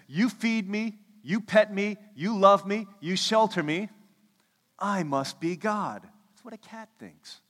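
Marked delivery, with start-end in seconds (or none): 0.1-6.0 a lightly voiced haughty cat, higher and louder; smug cat. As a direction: play the cat who thinks it is God. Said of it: "A cat says".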